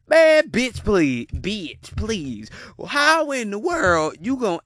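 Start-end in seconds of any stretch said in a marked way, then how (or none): 0.1-1.3 loud, scoffing brush-off. Real, not acted. Scoffing loud at the woman on the date video. Mocking the date's demand. 1.3-2.5 much softer, lower muttered bitch please; muttered scoff. Real, not acted. Softly repeating his dismissal of the woman on video.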